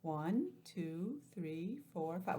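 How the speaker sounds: put-on slow counting for kids; counting aloud. Shown as a demonstration. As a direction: count each one out. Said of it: "Let's count them".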